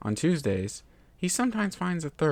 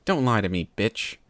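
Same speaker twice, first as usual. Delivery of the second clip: low snarl; 4 dB louder than usual. Acted. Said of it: "His voice is low".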